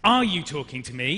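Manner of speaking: ARE stressed, rising question. Shown as a demonstration. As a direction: lean on the word "Are". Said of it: "maybe you changed the emphasis".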